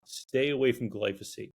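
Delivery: flat robotic repeat. Shown as a demonstration. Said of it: "I sound like a robot".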